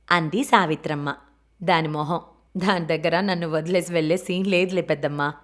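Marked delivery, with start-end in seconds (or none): 1.6-5.3 careless light laugh. Acted. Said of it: "చిన్నగా నిర్లక్ష్యంగా నవ్వి".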